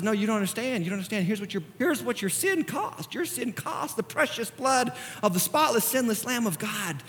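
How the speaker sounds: soft, grave answer as God; hushed solemn correction. Acted. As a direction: explain the cost in a hush. God answers gravely, acted by preacher.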